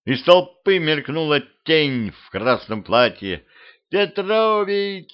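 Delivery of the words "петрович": high, drawn-out cry of a name; girl rushing to hug him. A narrator's reading. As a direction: call out to him in joyful relief. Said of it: "закричала девчонка".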